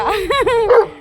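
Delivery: short high giggle; brief burst of giggling; laugh. Real, not acted. Owner joking about the workers, short high laugh.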